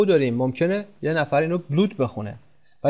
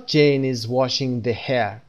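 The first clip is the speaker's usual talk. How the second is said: wrong example; 2 semitones lower, much slower than usual. Shown as a demonstration. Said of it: "به این صورت نمیگیم".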